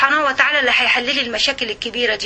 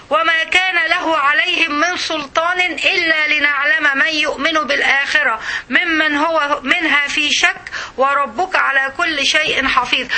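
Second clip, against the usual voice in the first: slow, chanted recital; Quran recitation; 2 semitones higher, slower than usual. Acted. The teacher reciting the verse to her class, slow chant. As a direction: intone each word reverently.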